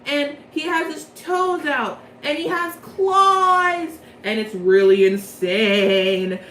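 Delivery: loud, drawn out, hyped; excited. Real, not acted. Describing Leona's overblot to viewers, excited and loud. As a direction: gush about the epic outfit.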